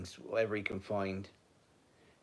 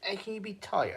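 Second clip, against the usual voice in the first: pet talk voice; 10 semitones higher than usual. Real, not acted. Talking to the sleepy dog.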